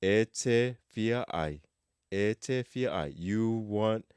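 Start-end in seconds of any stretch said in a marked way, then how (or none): 0.0-1.6 very slow, careful drill; slow practice model. Shown as a demonstration. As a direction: say it slowly for students to repeat. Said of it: "you can practice these as exercises".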